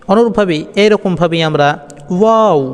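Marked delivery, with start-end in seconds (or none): 2.2-2.6 ওয়াও with rounded lips, higher and louder; Arabic letter waw. Shown as a demonstration. Teacher demonstrating ওয়াও to students, lips rounded. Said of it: "এই ওয়াওটি আমরা উচ্চারণ করব".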